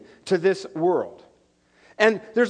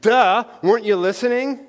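mock sass; 3 semitones higher, 4 dB louder than usual. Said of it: "That is a profound theological comment".

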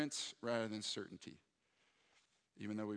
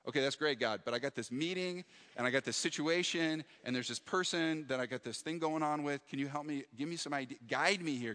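louder, higher rushed pleading with God; anxious pleading; 4 semitones higher, 4 dB louder than usual. Retold or imitated. Pastor retelling his anxious prayer over a full calendar, urgent pleading. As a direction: press God for answers, a bit frantic.

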